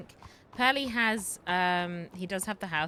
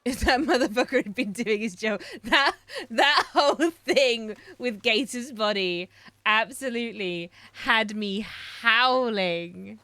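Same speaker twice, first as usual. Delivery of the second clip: laughing hard; 3 semitones higher, 9 dB louder, slower than usual. Real, not acted.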